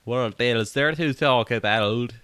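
slow, even robotic delivery. Pretend. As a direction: talk like a monotone robot. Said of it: "robot voice again real quick".

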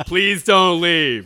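slow mock plea; drawn-out pleading quote; a hint of the officer's plea; quoting the cop. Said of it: "in the words of Officer Balin".

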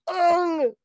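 high, loud death yelp; hammed-up cry cut short by death; mock dying grunt. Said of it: "his last word was".

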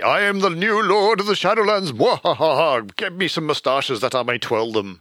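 high, hammy villain with evil laugh; sneering panto villain. Pretend. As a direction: ham it up like a mustache-twirling baddie. Scoffing at a cartoon villain lord.

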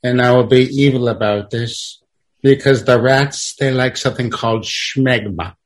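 lightly voiced movie villain; deliberate pauses, a hint of mock evil; Doctor Evil. Comic being evil about rats, light villain voice. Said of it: "say a word like Doctor Evil".

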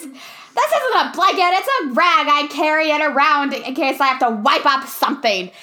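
the kid insisting his blanket is a rag, lightly voiced; little kid impression. Podcaster quoting the kid's rag line in a light kid voice. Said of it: "my best impression of this little kid".

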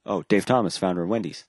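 the full name and title, said with mock respect; solemn mock-reverent full title; full proper title. Shown as a demonstration. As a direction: give Dave Thomas his complete, proper title. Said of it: "you gotta say it like that".

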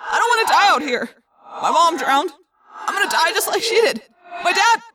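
high, loud, anguished pleading; crying out. A narrator's reading. Wounded friend fearing he'll drown, anguished cry. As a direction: wail in mounting despair. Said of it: "Marco cried".

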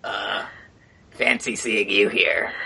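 a low, slow frog wizard drawl. Acted. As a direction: greet them like a sly old frog. GM voices Quigley the frog.

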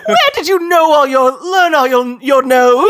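laughing, a hint of the merchant; playful Potion Seller bit; gruff proud merchant pitch. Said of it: "the speaker trying to do Potion Seller".

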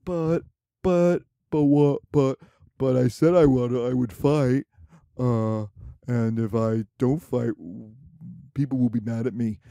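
mock flustered emperor pleading; hammed-up panicked tsar; whiny stammering emperor. Emperor voiced, stammering excuses.

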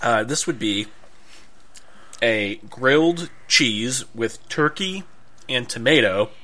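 talking through a mouthful; words round a bite of sandwich; mouth full. Real, not acted. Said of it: "Caught a mid-bite".

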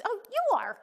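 normal talking voice

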